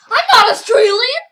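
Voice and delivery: loud, high-pitched protest; high, emphatic yelled insistence; insistent shout. Pretend. Louder, insistent repeat of denial.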